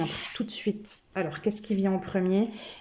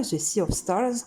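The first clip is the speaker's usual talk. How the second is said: a light English accent on the English title; a touch of English accent. Shown as a demonstration. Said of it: "Est-ce que vous avez noté l'accent anglais?".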